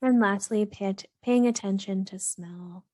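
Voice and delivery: calm, even meditation voice with long pauses; unhurried, steady grounding-practice delivery; guided meditation. Real, not acted. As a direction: gently guide listeners into grounding, leaving space between phrases.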